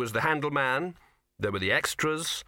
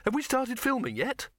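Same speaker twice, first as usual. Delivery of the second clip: desperate; 8 semitones higher than usual. A narrator's reading. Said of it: "he said desperately".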